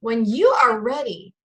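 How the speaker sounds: high, hammed-up Southern charm; Southern drawl. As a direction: pour on a mock Southern drawl. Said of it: "I can start the Southern drawl in it too".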